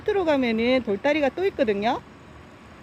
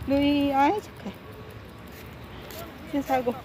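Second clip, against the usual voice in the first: praising the dog; 2 semitones higher, 5 dB quieter than usual. Real, not acted.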